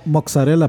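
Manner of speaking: mozzarella said moksarela, a k sound before the s. Shown as a demonstration. A friend teasing the group shows how mozzarella is said here. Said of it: "porque aquí decimos pizza".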